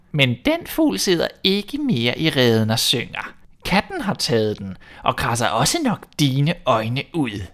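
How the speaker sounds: lightly voiced witch taunting; a touch of spite toward the prince; mild mocking witch. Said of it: "sagde hun spottende".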